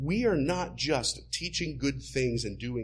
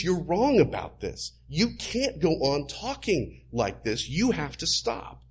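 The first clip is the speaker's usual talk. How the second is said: loud, higher protest to Jesus; rebuking Peter; 5 semitones higher, 3 dB louder than usual. Acted. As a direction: Peter scolding his master hard. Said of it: "Peter rebuked Jesus".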